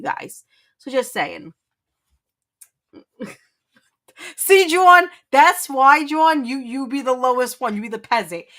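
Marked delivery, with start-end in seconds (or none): 4.4-8.4 loud teasing. Real, not acted. Teasing John for mocking her accent, loud and gleeful. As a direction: rub it in, laughing at him.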